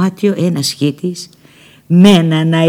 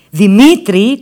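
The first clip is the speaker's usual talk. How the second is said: loud, higher call of the name; 4 semitones higher, 7 dB louder, slower than usual. Retold or imitated. Nina calls to Petros with a loud, pointed cue. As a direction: call him pointedly to get him to play along. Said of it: "του φωνάζω".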